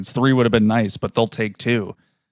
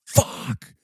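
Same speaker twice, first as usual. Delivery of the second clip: retold scream; 5 semitones higher, much slower than usual. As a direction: imitate yelling at the TV, volume held back. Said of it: "I'm just screaming at my T V".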